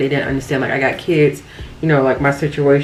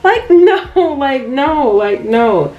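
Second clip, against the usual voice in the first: laughing refusal; 8 semitones higher, much slower than usual. Real, not acted.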